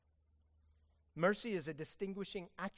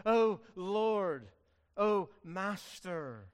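servant's plea; 6 dB louder, much slower than usual. Acted. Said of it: "Much like a servant would speak to his master".

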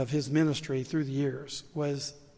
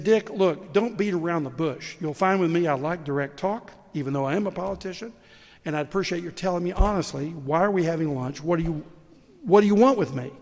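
building from an impatient politician to a loud, exasperated demand; a fed-up politician demanding the pastor's real motive, voice rising to loud; irritated demand; 6 dB louder than usual. Retold or imitated. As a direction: push harder and louder until you snap the question out. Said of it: "the man was visibly irritated and upset".

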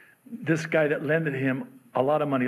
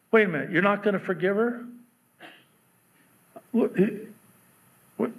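God's rebuke; 5 semitones higher, faster than usual. Retold or imitated. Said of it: "email from God".

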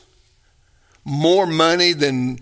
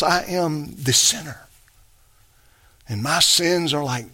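humble confession. Acted. Humble sinner's prayer voiced.

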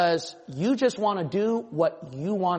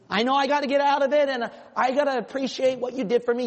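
rising, fast exasperated complaint to God; annoyed pushback; 4 semitones higher than usual. Pretend.

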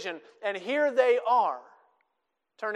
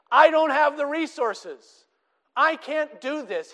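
slower, higher and louder, pleading helplessly; despairing plea; 7 semitones higher, 5 dB louder than usual. Retold or imitated. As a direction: plead like a man at the end of his strength. Moses voiced pleading his limits.

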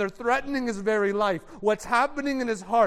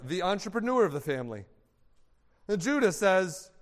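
ordinary talk, nothing marked

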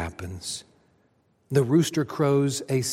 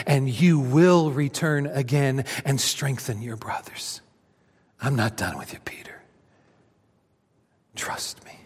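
tender assurance; 2 semitones lower than usual. Acted. Jesus tenderly reassuring Peter he is not done with him. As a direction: hold him up with gentle words.

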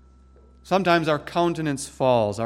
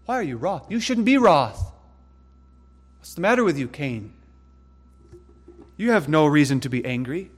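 voicing God's rebuke. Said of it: "And the Lord spoke to him".

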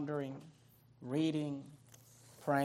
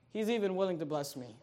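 usual speaking voice

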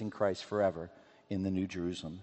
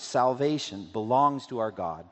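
mildly raised, slow proclamation; loud cry; 5 dB louder than usual. Acted. Multitude before the throne praising God, a mild loud cry. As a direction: cry it out with measured force, drawn out. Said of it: "cried out in a loud voice".

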